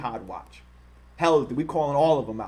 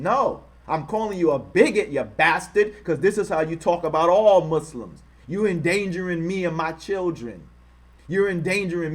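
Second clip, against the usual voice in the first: angry outburst; 3 semitones higher, 3 dB louder than usual. Real, not acted. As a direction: call him out hot and loud. Angry rant at Robert Spencer.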